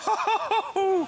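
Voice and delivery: high loud shocked yelp; startled cry. Real, not acted. Guest falling off virtual plank, real startled yelp. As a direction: cry out as the floor drops.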